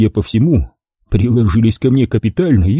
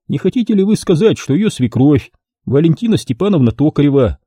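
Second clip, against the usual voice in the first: character voice pitched up; a lightly voiced shady photographer; 7 semitones higher than usual. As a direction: play the dealer selling his offer. Photographer argues his case.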